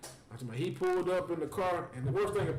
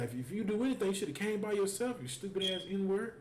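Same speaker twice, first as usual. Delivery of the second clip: higher-pitched imitation of angry scolding; going off on him; 6 semitones higher than usual. Baby mama berating her children's father, imitated scolding. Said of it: "Went off on".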